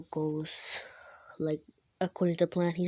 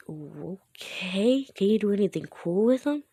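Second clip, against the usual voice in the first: drawn-out rising okay, then a louder question; acted skepticism; 4 dB louder than usual. Classmate asking Grape about his quirk, acted skepticism. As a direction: humor someone with open doubt. Doubtful reply about sticky balls.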